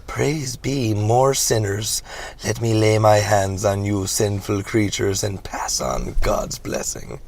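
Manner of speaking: slow, lecherous preacher; lightly voiced reverend. Reverend greets zombie girls.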